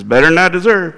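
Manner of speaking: rough impression of a catchphrase, rising and falling; Dave Ramsey. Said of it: "I can't do his accent the way he is".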